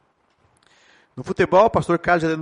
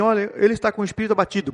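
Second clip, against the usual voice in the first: downcast; faster than usual. Shown as a demonstration. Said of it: "Pouca vibração, abatido".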